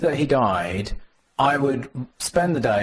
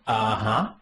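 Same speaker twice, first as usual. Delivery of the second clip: skeptical uh-huh; 5 semitones lower, slower than usual. Retold or imitated. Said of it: "those of us who'd been working on Emacs Wiki for a while went".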